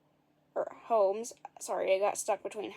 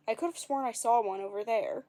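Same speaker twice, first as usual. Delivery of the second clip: faking innocence. Acted. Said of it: "faking innocence".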